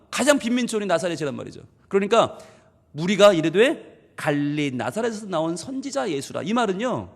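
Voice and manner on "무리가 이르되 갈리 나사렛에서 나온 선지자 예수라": a touch of belittling in the voice; dismissive reading. Shown as a demonstration. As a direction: say it like he's nobody special. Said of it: "예수님을 완전히 깔아뭉개는 말이에요". (깔보듯이 읽기)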